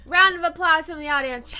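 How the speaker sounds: game show host. Pretend. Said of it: "You gotta get into character".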